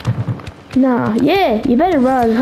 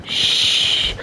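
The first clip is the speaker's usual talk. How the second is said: drawn-out, voiceless shush; soft, sustained "shh"; long shush; 4 dB quieter than usual. Pretend. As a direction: hush someone while hiding. Hiding in the game.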